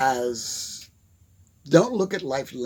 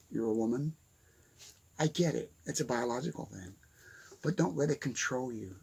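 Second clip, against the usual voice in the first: usual speaking voice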